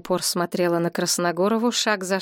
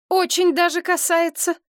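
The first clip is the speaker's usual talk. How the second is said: high, louder sharp exclamation; exclaiming; 11 semitones higher, 4 dB louder than usual. A narrator's reading. Galina snapping back at her mother, high exclamation. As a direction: fire it straight back at her. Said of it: "воскликнула Галина".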